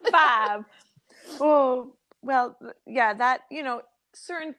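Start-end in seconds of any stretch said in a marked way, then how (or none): 0.1-0.6 Five said as "fahv"; Five with one long open vowel; improper five. Shown as a demonstration. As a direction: drop the glide in Five. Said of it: "I can't say five miles apart properly".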